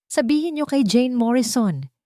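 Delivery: shouting. Acted. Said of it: "sigaw nito habang nagpupumiglas".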